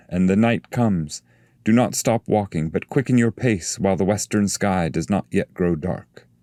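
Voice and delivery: a bright herald's warning; angel's voice. Acted.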